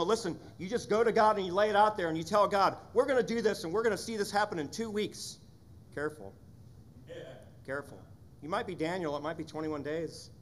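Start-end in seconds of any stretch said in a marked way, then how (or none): 0.0-5.4 bold pastor advice. Retold or imitated. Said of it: "we say things like".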